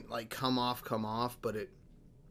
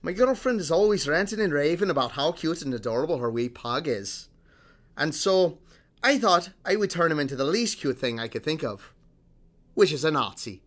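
put-on higher, louder amateur Scottish accent; attempted Scottish accent; 3 semitones higher, 4 dB louder than usual. Host reads the Scottish man's quote to co-hosts, mock Scottish accent. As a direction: quote him in your best Scottish accent. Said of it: "best Scottish accent that I can muster here".

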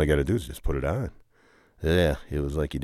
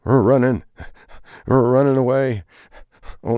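excited shout; 8 semitones higher, 6 dB louder than usual. Acted. Running from police.

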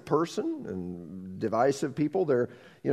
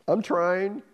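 I'm trying pushed up with a rising end; rising strain; 5 semitones higher than usual. Acted. Second try, rising.

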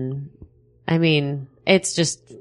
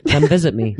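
small sad pleading voice, with a laugh; sad little voice. Retold or imitated. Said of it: "in this sad little voice".

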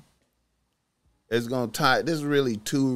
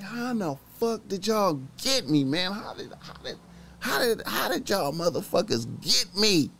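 retold angry; 6 semitones higher than usual. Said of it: "I was pissed as fuck".

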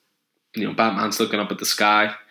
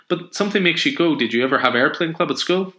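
put-on high, eager child's questions; little girl; 7 semitones higher than usual. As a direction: pester him like a curious kid.

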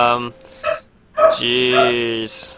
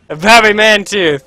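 goofy drawn-out name; 6 semitones higher, 7 dB louder, slower than usual. Pretend. Repeating the silly name.

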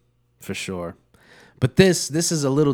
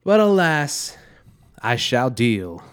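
mock dramatic; 2 semitones higher, 3 dB louder, slower than usual. Mock theatrical resignation.

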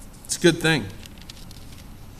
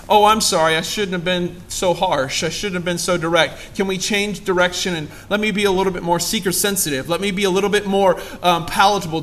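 mock apology. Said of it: "Oh, that's not what it says".

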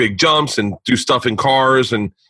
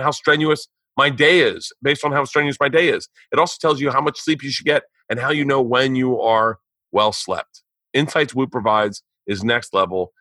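conversational host-read sponsor spot. Acted. Podcast host pitching a fitness tracker to listeners, ad read. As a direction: sell it like a personal endorsement.

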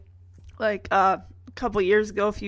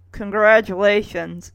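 loud mock praise; hammed-up sarcastic cheer; 2 semitones lower, 5 dB louder than usual. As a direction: congratulate with heavy irony.

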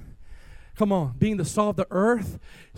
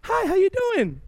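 lightly voiced flat, hollow greeting, higher; a greeting with no spirit in it; empty greeting; 8 semitones higher than usual. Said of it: "It's not like".

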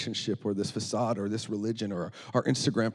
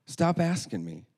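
high, slow acted complaint; exasperated; 8 semitones higher, slower than usual. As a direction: draw it out like a fed-up child. Girl fed up with repeated question.

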